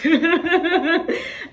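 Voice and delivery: bright burst of laughter; high laugh. Real, not acted. Laughs at own reaction.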